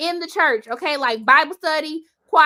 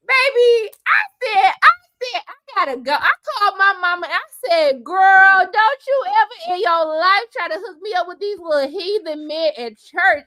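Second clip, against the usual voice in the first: loud, higher retold scolding; animated retelling; 3 semitones higher, 4 dB louder than usual. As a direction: tell it loud and high with drama. Retold call to her mama.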